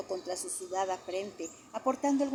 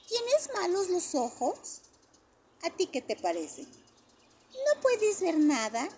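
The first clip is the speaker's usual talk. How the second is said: put-on high, slow wondering child voice; curious child; 11 semitones higher, 5 dB louder, slower than usual. A narrator's reading. The kids ask blind Ben if he can see, slow curious child voice. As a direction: ask like a puzzled little kid.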